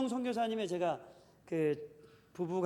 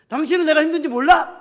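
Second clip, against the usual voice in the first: sharp, much louder and higher mock yell; angry outburst; 9 semitones higher, 14 dB louder than usual. Wife yelling at her husband for not helping, angry outburst. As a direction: snap at the husband in a retold fight. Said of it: "이렇게 확 얘기를 하는 거죠".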